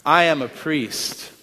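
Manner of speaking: a slow, firm call to repeat; slow emphatic declaration. Shown as a demonstration. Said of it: "Say it with me".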